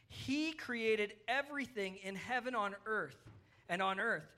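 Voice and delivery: slow, deliberate Bible reading; scripture reading. Acted. Preacher reading Colossians to kids following along, measured scripture reading. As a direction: read the verse out slowly, phrase by phrase. Reads scripture aloud to children.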